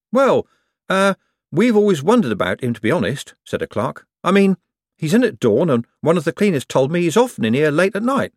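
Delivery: high-pitched, eager office gossip; gossiping clerk. Acted. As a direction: confide it hesitantly, then press on. Clerk gossips hesitantly about boss.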